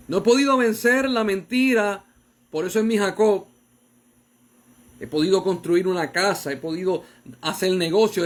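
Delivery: fervent preached confession; preaching at full force. Acted. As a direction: drive home the confession. Peak of sermon appeal.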